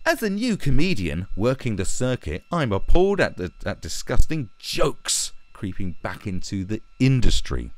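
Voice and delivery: exaggerated mock indignation; mocking read-aloud. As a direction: read it as a self-important little boy. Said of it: "let's read what this little boy has to say".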